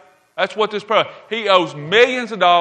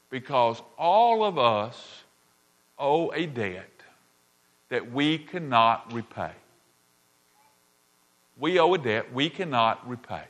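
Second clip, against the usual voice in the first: quiet, earnest confession to the congregation; hushed preaching; 6 semitones lower, 8 dB quieter than usual. Real, not acted. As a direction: let it sink in gently. Intimate preaching of sin's debt.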